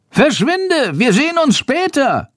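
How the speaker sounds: high urgent bat shriek. A narrator's reading. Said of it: "kreischende Stimme".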